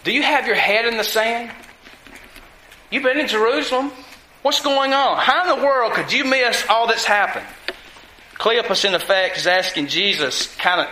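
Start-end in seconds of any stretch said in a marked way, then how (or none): 0.0-7.4 mildly incredulous, mock sarcastic questions; snotty sarcasm. Disciple asking a stranger how he missed the news, mock sarcastic. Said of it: "snotty and sarcastic toward him".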